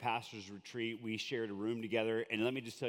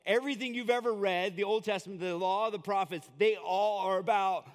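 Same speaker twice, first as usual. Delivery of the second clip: voicing Jesus; 6 semitones higher, 4 dB louder than usual. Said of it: "this carpenter from Nazareth go".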